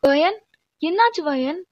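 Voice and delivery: startled, demanding to know what happened; alarmed questioning. Acted. Rushes over after the slap. (பதற்றமான கேள்வி)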